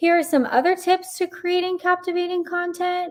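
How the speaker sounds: statement ending with rising uptalk on "content". Explaining unconfident speech, the speaker demonstrates ending a statement with uptalk. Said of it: "end their statement with a slight high pitch as if they're asking a question".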